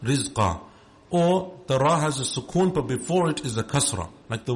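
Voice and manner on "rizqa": Rizqa with a thin, light R. Shown as a demonstration. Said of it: "so the Ra is light".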